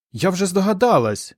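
high excited exclamation; exclaiming. A narrator's reading. Var tells Pol she has guessed how he was saved, exclaiming. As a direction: burst out with the discovery. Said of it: "вигукнула Вар".

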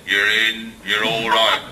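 a hushed little machine voice reassuring. Retold or imitated. Entry system greeting the drunk owner, soft and low. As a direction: murmur it like a tiny door voice. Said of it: "a little voice says".

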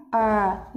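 "R" as a drawn-out r with curled tongue. Shown as a demonstration. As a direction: curl the tongue back and hold "R". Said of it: "Âm r này mình cong lưỡi vào nhá". (âm "R" cong lưỡi)

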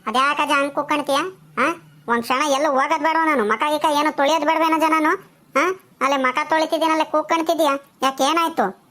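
mildly irritated, firing back questions; quarrelsome. Acted. Mother-in-law objecting to being shouted for while washing, quarrelsome. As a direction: complain at being called for. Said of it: "ಜಗಳಕ್ಕೆ ಬರ್ತೀಯಲ್ಲೇ ಮಾತಾಡ್ಸಕ್ಕಿಂತ ಮುಂಚೆನೆ".

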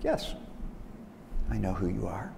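soft, understated reply; unimpressed sheep. Acted. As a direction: answer the roar quietly, unafraid. Unafraid sheep answers roaring wolf.

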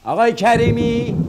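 high urgent call, fast. Acted. Stranded man calling for Mr. Karimi, loud. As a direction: call across the place to find him.

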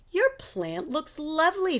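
high, gentle compliment; teacher praising a pupil's drawing; kind praise. Acted. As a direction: encourage her kindly. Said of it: "she said".

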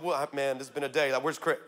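a hint of God sighing about Chris; amused God. God voiced looking at Chris.

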